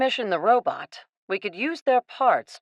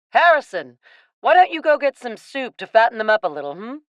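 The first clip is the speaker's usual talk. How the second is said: louder call to the servant across the room; 2 semitones higher, 5 dB louder, faster than usual. Acted. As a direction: call Harrison over, brisk and a little fast. Captain calls the servant.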